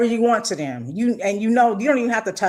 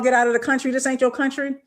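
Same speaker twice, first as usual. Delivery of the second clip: mock hostile yell; 5 semitones higher, faster than usual. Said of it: "running up on people ... 'cause you got an accent".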